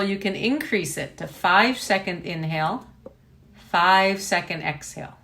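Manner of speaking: measured breathing-exercise voice, spaced phrases; guided meditation. Real, not acted. Teacher leading equal length breathing practice, guided meditation. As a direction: pace the breath for them, pausing between counts.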